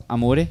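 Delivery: mimicking "Amore" broken into syllables; imitated split pronunciation. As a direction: copy a friend's over-separated "Amore". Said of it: "the way you're saying it".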